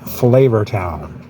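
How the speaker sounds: slow drawn-out TV chef catchphrase; Guy Fieri impression. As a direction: stretch it out like a food show host. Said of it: "Guy on Food Network, he would refer to this as".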